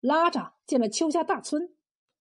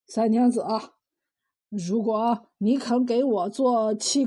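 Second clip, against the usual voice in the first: 死乞白咧地祈求; 3 semitones lower than usual. Acted. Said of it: "死乞白咧地祈求道". (慢吞吞地软磨硬泡)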